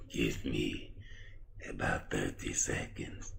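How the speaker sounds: very slow, low, soft creepy voice; sinister drawn-out doctor drone; Victor. Acted. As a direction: stretch every word out eerily. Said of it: "why do you talk like that".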